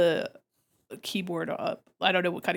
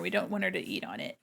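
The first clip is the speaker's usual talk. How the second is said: usual speaking voice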